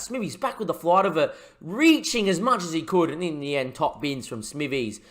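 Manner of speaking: lively match commentary, building on the chances; play-by-play commentary. Acted. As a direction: call the game like a TV commentator. Commentating the replay.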